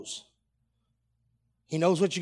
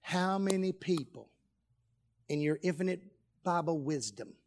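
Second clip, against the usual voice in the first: hushed, measured question; 7 dB quieter than usual. Real, not acted. Preacher quietly putting a question to the congregation, hushed and measured. Question first posed softly, then hammered.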